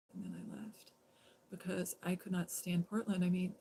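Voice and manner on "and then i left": hushed whisper. Real, not acted. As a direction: let it fade to a whisper. Telling of Nancy's death.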